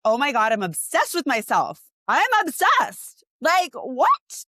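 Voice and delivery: high, loud, drawn-out "obsessed!"; thrilled squeal. Retold or imitated. Client receiving her gallery, squealing high and loud with delight. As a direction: imitate a client delighted with herself. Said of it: "she's like".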